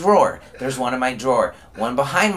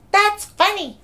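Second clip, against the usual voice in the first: very high, squeaky mock voice with tittering; laughing counselor impression; 3 dB louder than usual. Imitating counselor amused by the prank, high tittering mock voice. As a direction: imitate an amused counselor, hee-hee giggle after. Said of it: "my Genesis counselor just starts laughing".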